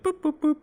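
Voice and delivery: high-pitched little boops; toy-like electronic boop noises; imitated boops. Friend pretends to work the TV, high boops.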